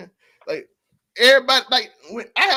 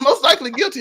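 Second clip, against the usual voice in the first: laughing; 2 semitones higher, 4 dB louder than usual. Real, not acted. Repeats line while laughing.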